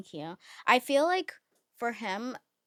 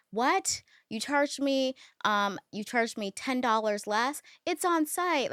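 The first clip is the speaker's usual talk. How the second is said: higher, indignant at the cashier; mock outraged shopper; riled-up complaint; 5 semitones higher than usual. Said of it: "I was getting riled up".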